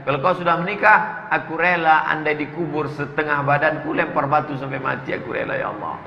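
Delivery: earnest plea fading to a whispered end; repentant prayer. Acted. Sinner confessing to Allah, fading to a hushed whisper. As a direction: pray as if confessing, sinking away at the end.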